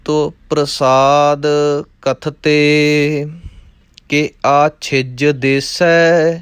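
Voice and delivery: measured, chanting recitation of verse; rhythmic Gurbani recitation; scripture recitation. Acted. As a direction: recite the verses steadily like a path. Recites Bhagwati chhand.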